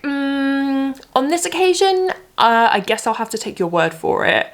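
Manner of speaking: high, reluctant mock voice of the phone agent; grudging Instagram agent. Mimicking the agent on the phone, high and grudging. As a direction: drag it out like she barely believes you. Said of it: "She was like".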